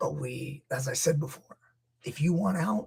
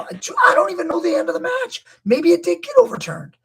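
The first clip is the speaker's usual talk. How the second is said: sheepish admission; 12 semitones higher, 7 dB louder than usual. Real, not acted. Speaker admits not knowing.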